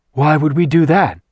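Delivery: gruff demon voice. A narrator's reading. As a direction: defend herself with a growl. Zarina character voice.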